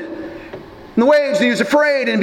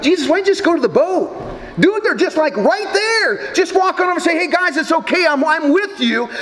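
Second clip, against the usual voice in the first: higher, half-shouted mock exasperation at Jesus; exasperated aside to Jesus; 5 semitones higher than usual. Preacher pleading with Jesus to walk over, exasperated. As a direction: play it like talking sense into a friend, Dude. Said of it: "the thing that struck me is like".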